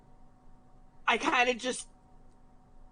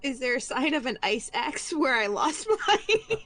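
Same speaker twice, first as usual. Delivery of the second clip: laughing; 4 semitones higher, 4 dB louder than usual. Real, not acted. Laughing joke question.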